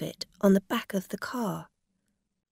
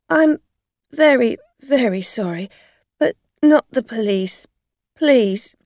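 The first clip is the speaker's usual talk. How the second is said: pleading; 4 semitones higher, 9 dB louder than usual. Acted. Dorothy pleads not police.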